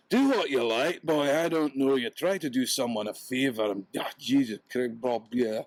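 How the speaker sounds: a hint of the hart grumbling off as it fades; muttering hart. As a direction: grumble it away, lightly voiced. Hart fading away, muttering.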